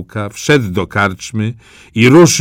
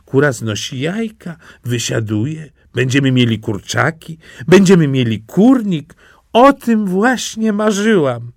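higher, delighted wife's voice; wife delighted about the hen, in a high voice; happy wife; 7 semitones higher than usual. Acted. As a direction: dream aloud of chickens. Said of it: "powiedziała kobieta".

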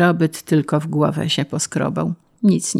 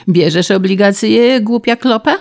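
raised voice, climbing at the end; a moderate bullying yell; shouted demand; 5 semitones higher, 4 dB louder than usual. A narrator's reading. Official pressing the peasant to take bonds, shouting. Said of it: "krzyknął do niego Krajzamt".

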